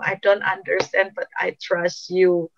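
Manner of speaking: slow, drawn-out plea to God; earnest, trusting appeal, stretched out; acted surrendering prayer. Preacher as weeping David still trusting God, slow pleading. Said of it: "dia pada akhirnya ngomong".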